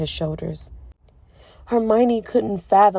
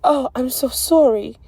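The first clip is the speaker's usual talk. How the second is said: distressed apology; 6 semitones higher, 6 dB louder than usual. A narrator's reading.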